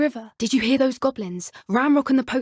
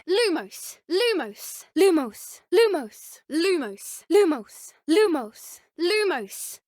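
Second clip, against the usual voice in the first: higher incantation; light the wand; higher spell call; spell cast; 5 semitones higher, slower than usual. Acted.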